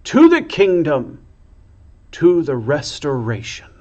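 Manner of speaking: a loud rallying cry easing down; triumphant chant; shouted cheer. A narrator's reading. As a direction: keep rallying the crowd. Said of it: "she shouted".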